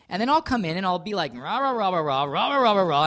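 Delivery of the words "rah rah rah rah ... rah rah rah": little Napoleon ranting. Retold or imitated. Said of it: "some kind of, like, little Jewish Napoleon".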